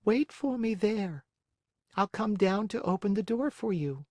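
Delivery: high, unhurried snail voice. Acted. Snail character voice.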